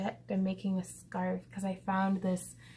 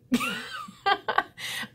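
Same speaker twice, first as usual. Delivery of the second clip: high laugh. Real, not acted. Vlogger laughing at her fifteen-year-old self.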